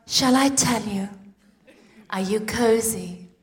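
a gentle mum settling her daughter; cozy bedtime voice. Retold or imitated. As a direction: lull her in like a bedtime story. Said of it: "And I'll say to her".

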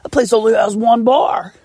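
mock disdain; mock sneer. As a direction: sneer at the town. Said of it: "the worst thing you could possibly say".

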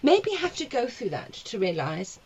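laughing while talking; words broken by laughter. Real, not acted. Laughing through painful memory.

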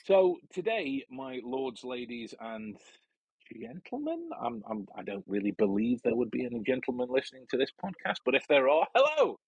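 pompous announcer. Acted. Mock-pompous greeting to listeners.

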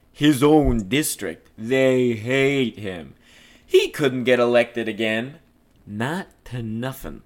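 lightly voiced streetwise cop, relishing it; a hint of a scornful old-time tough guy; gossiping Floyd. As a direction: deliver rumours with theatrical weight.

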